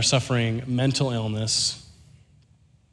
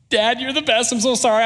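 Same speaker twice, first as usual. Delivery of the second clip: put-on high-pitched, gushing kid voice; effusive apology; 10 semitones higher than usual. Boy thanks dad driving him home, effusive apology. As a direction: imitate a grateful, apologetic child. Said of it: "I'm, like, apologizing all the way back".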